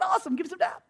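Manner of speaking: very high-pitched hype; excited celebration. Retold or imitated. Preacher celebrating with the subway stranger, excited. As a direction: cheer him on in a high voice.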